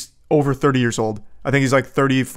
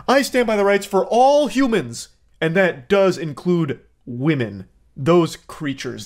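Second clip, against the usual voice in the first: higher start, slowing to a drawn-out Those creatures; mock sanctimony; 3 semitones higher than usual. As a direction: parody a smug do-gooder. Parodying his apology.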